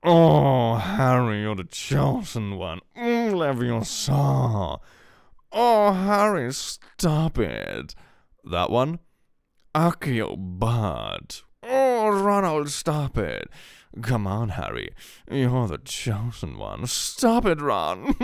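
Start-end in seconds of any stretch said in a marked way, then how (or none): 0.0-8.0 hammed-up high squeaky cartoon parody; overacted fan-animation character voice; Harry Potter parody voices. Imitating an old YouTube Harry Potter parody with squeaky voices. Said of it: "old YouTube animations where it's like". 9.7-18.1 hammed-up high squeaky cartoon parody; overacted fan-animation character voice; Harry Potter parody voices. Imitating an old YouTube Harry Potter parody with squeaky voices. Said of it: "old YouTube animations where it's like".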